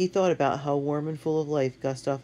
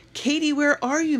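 frantic yell, much higher and louder; 13 semitones higher, 6 dB louder than usual. A narrator's reading. Matt yells for his missing sister, frantic yell. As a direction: call across the shoreline. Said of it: "Matt yelled".

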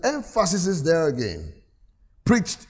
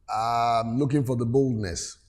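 mock hesitant excuse; 5 semitones lower, 4 dB quieter than usual. Voices a non-preacher's lame excuse.

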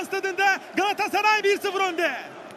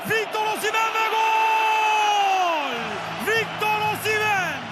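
screaming football commentator. Real, not acted. Goal call, commentator.

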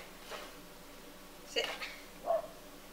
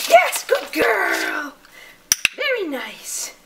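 excited praise; 4 dB louder than usual. Real, not acted. Praising dog after agility run.

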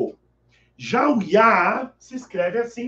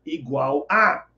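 slow gloss; 3 semitones lower, slower than usual. Shown as a demonstration.

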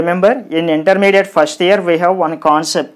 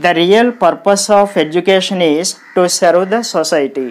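every syllable of "The real purpose of education" given equal weight; even, Telugu-style syllable timing through the whole sentence; equal stress. Shown as a demonstration. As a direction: read "serve the society" evenly, no syllable stressed. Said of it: "we pronounce all the sounds with equal importance".

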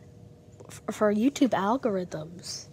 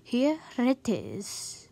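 put-on Italian accent. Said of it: "Why did I just do that in an Italian accent?".

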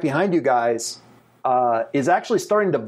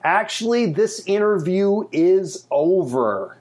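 slow, drawn-out interruption, slightly higher; different voice from feedback; 3 semitones higher, slower than usual. Acted. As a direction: cut in through the feedback, unhurried and final. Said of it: "reforms into a different voice and says".

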